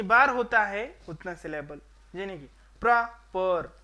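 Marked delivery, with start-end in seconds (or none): 2.8-3.8 प्र and पर sounded as separate beats; syllable demo. Shown as a demonstration. Teacher counting vowels for students, syllables said apart. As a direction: break the word at प्र, then पर. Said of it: "इधर एक vowel मैंने उच्चारण किया".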